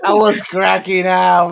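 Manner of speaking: laughing through the words; cracking up mid-sentence. Real, not acted. Friend recalling the funny scene, laughing.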